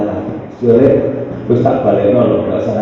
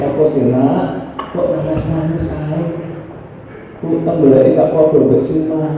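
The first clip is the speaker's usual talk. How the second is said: a mother lovingly coaxing her crying son; sing-song tender asking; 5 semitones higher than usual. A narrator's reading. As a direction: penuh kasih sayang. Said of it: "dengan penuh kasih sayang".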